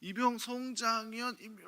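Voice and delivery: slow, high recruit's report; awkward new private reporting slowly; korean military style. Retold or imitated. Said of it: "이래요". (느리고 높은 신병 관등성명)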